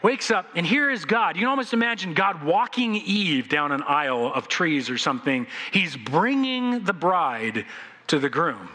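ordinary talk, nothing marked

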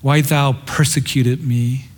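gently drawn-out, mildly tender appeal. Acted. The Lord asking Saul why, gently tender. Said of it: "He says it very tenderly".

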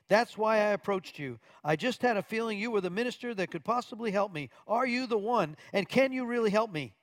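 a man at the end of his rope asking for help; desperate plea. Retold or imitated. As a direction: beg for help, voice lifted and urgent. Richard pleads with the preacher.

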